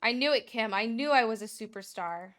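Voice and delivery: loud, triumphant gloating; gleeful boast. Real, not acted. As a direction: crow over being a superstar. Gloats at being called superstar.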